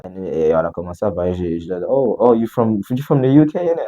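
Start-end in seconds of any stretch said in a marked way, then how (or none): 1.9-3.8 eager, higher and louder approach to strangers; eager greeting. Retold or imitated. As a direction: pipe up excitedly, re-enacting the greeting. Quotes himself greeting British strangers.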